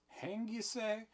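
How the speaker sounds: high, loud stunned cry; shocked call. Acted. Proctor calls into Mary Warren's face, shocked loud cry. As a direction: throw the word back at her in shock. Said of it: "he calls into her face".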